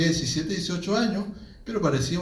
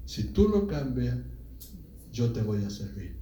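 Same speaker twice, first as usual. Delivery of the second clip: retold prayer, subdued and low; tearful prayer, retold; 4 semitones lower, 6 dB quieter than usual. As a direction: humbly plead in a hushed low voice. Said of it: "empiezo a llorar, a llorar".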